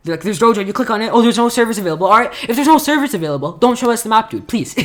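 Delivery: high, loud exasperated pleading; mad rant. Real, not acted. Gamer begging Hypixel about unavailable servers, mad. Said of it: "I sound so mad at Hypixel".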